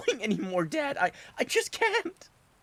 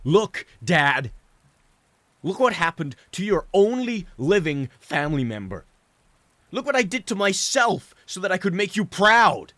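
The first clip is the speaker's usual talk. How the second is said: much higher and louder, crying as he shouts; tears pouring out through the yelling; sobbing outburst; 6 dB louder than usual. Acted. Son screaming his guilt at his father, sobbing. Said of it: "sobbing the little of what remained".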